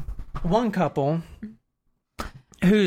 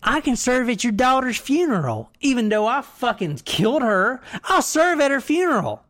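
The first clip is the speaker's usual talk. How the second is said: mock Belgian accent. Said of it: "think Belgian accent".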